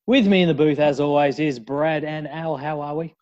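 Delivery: loud, showy introduction; excited host intro. Acted. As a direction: announce the guests with flair.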